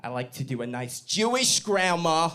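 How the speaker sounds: lightly put-on New York Jewish grandma accent. Comedian showing off his New York grandma accent. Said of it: "do a New York grandma accent".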